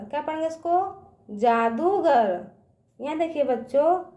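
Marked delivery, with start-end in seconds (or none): 1.3-2.4 slow, lower जादूगर, दू held long; drawn-out long ū. Shown as a demonstration. Teacher answering her question, जादूगर with long ū. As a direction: stretch out दू in जादूगर. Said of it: "इसका उच्चारण ना खींच के करते हैं".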